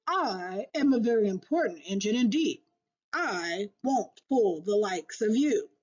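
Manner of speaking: lightly voiced proud freight engine, a touch of bellow; mild bellow. Freight engine bellowing at the toys, mild proud bellow. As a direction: boast it like a grand important engine. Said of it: "the big strong engine bellowed".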